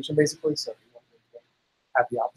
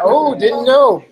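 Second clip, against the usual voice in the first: mock surprise; 6 semitones higher, 6 dB louder, much slower than usual.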